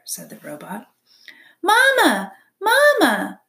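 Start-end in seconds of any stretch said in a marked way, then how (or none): 1.6-3.4 put-on tiny high-pitched baby bird cry; peeping gosling. A narrator's reading. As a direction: peep loudly like a hungry hatchling. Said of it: "peeped the gosling".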